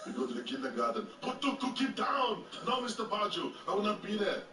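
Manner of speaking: hint of an Austrian action-star voice; lightly hammed Austrian accent; Arnold Schwarzenegger. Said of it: "Arnold Schwarzenegger on the show".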